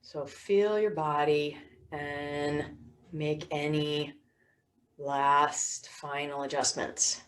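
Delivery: unhurried yoga nidra guiding voice; guided meditation. Real, not acted. Teacher settling listeners for yoga nidra, guided meditation voice. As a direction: settle them gently, with long pauses.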